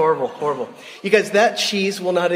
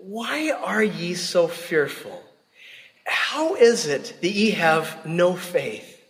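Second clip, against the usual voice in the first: gentle rebuke; 2 semitones higher, much slower than usual. Retold or imitated. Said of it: "and he says".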